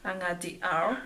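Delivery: steady recited prayer, line by line; measured classroom prayer; prayer recitation. Acted. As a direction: lead the class through the prayer. Leads class in Hail Mary.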